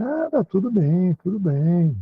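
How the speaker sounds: a drawn-out mild reassurance; slow answer. Acted. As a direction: answer slowly like a wary boyfriend. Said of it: "vai falar devagarzinho".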